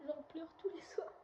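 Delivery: high, slow depressed moan; zombie voice. Pretend. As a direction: whine it out slowly, half-hearted zombie. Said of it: "faire une voix de zombie".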